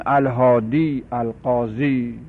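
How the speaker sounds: slow, dropping pitch, stretched ī ending «القاضی»; وقف با سکون یا. Shown as a demonstration. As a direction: finish «الهادی» and «القاضی» on a long ī. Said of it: "با سکون یا برش وقف کنیم". («الهادی» و «القاضی» را با یای ساکن کشیده بگو)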